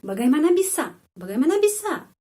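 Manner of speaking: rising high in disbelief; shocked question. Shown as a demonstration. Teacher shows how a shocked Indonesian asks. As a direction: ask it as if you can't believe it. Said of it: "Orang terkejut dan marah".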